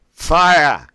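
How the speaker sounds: fire, shouted high and loud, air dumped at once; sharp thrust of fire. Shown as a demonstration. Diaphragm exercise, coach blasting fire out sharply. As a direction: blast "Fire" out quickly and sharply with a Boston sound. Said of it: "pronounce it as fire".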